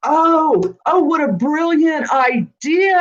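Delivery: light up at a brilliant idea; delighted. Real, not acted.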